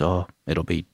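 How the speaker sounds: low, quiet mock American accent; terrible American accent. Toxicologist quoting a Californian lab's delay, bad American accent. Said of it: "That's a terrible American accent".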